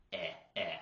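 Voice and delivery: short, pure "Eh"; two short, separate "Eh" sounds; simple vowel. Shown as a demonstration. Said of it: "Very simple vowel sound".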